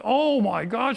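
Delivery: lightly voiced surprised woman; surprised exclamation. Lady's surprised retold reaction.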